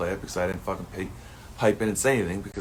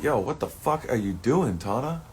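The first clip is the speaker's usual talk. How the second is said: half-hearted mock confrontation, a bit louder; overacted callout; 4 semitones higher, 4 dB louder than usual. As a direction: ham up calling Tana out. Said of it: "I'm somewhat overacting a little bit".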